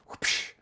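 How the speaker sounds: quick hushing whoosh sound; spoken sound effect of a sharp whoosh; whoosh noise. Shown as a demonstration. Showing viewers how harsh "regulate" feels, imitated whoosh.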